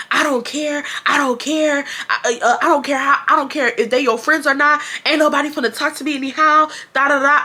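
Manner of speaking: hammed-up bratty sister shouting back; retold screaming back. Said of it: "screaming back at her".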